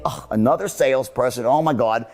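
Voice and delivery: low, weary groan of words; annoyed prospect. Retold or imitated. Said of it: "rather than them saying".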